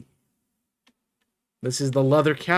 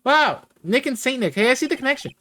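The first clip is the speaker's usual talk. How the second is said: put-on high, excited girlish voice; amazed sidekick; 11 semitones higher, 3 dB louder than usual. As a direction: marvel in a high, bubbly voice. Sidekick amazed Nick knows Santa.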